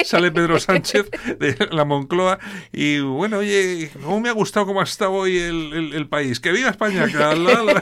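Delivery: lightly voiced politician gloating over the day; mock Pedro Sánchez. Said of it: "tú imagínate a Pedro Sánchez".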